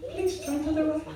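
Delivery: imitated Indian accent. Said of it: "put Indian accent".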